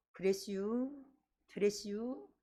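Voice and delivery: Chungcheong regional Korean speech. Preaching a sermon, mimic how Chungcheong people talk, in Chungcheong dialect. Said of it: "충청도 사투리".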